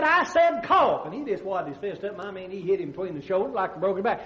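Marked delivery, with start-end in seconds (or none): 0.0-1.1 slow, loud insistence; slow, loud command. Acted. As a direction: drag out each word, louder. Doctor insisting, louder and slower.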